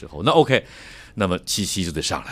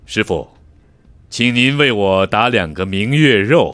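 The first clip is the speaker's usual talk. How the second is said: broadcaster voice; 6 dB louder, slower than usual. Retold or imitated. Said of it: "广播学院的是".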